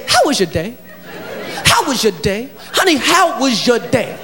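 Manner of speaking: low, gentle how was your day; tender question. Shown as a demonstration. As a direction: ask her sweetly. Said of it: "All you got to say is".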